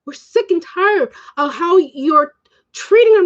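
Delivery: slow, emphatic retort rising in pitch; acting out an indignant protest; re-enacted confrontation. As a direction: stretch the complaint, then push up high at the end. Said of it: "I'm like".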